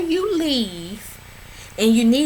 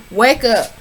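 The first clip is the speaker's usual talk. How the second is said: "Wake up" said louder and firmer; firm, louder wake-up call; louder urging; 4 dB louder than usual. Real, not acted. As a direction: push harder on "Wake up". Urging the cast member.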